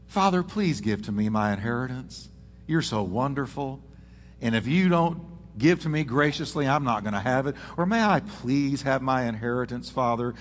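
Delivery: soft, gentle asking tone; polite humble request. Retold or imitated. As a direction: ask sweetly and humbly. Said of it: "Here's what he didn't say".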